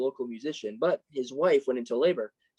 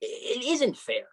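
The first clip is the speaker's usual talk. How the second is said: ordinary talk, nothing marked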